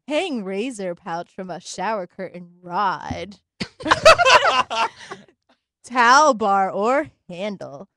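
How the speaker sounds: seductive voice. Acted. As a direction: drag it out, half laughing, slow. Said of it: "It sounded like I was gonna kill somebody".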